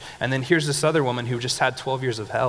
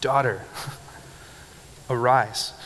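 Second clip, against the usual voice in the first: tender call. Retold or imitated. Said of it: "He says".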